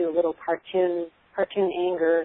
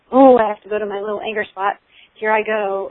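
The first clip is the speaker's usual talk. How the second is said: hammed-up cartoon anger, higher and louder; 4 semitones higher, 9 dB louder than usual. Shown as a demonstration. Parent demonstrating the anger drill to children, hammed-up cartoon anger. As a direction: play-act a silly tantrum for the kids. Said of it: "you cartoon it so that they can laugh".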